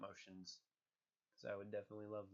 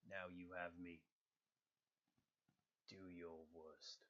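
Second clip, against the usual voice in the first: Thor voice. Acted. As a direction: dare an enemy gravely. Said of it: "a little bit of the grumble".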